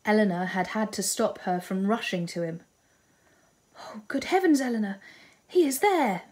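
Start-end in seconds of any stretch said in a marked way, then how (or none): 3.8-6.2 excited cry. A narrator's reading. Marianne sees Willoughby at the ball, crying out high and excited. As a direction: cry out high and eager, spotting him. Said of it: "Marianne had cried".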